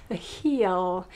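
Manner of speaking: heel with a deliberately sounded H; heel, the H breathed out before the vowel; careful H. Shown as a demonstration. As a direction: correct yourself with a clear H on heel. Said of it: "we don't pronounce the H".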